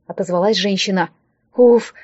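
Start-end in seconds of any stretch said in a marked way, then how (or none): 1.5-1.9 a short breathed-out phew; relieved exhale. Acted. Liza learns the woman is Larisa, relieved phew. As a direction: let the relief out in one breath. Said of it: "облегчённо выдохнула я".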